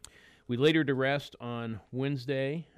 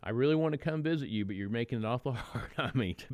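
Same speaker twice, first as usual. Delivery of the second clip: mild mock yell, higher and louder; retold yell; 3 semitones higher, 3 dB louder than usual. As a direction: call out in half-hearted, joking exasperation. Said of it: "I just yelled out".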